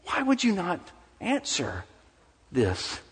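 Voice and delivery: high, urgent questioning, dropping on the last word; preacher voicing a frustrated prayer; struggling prayer. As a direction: plead with a silent God, acted out. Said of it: "We struggle to know".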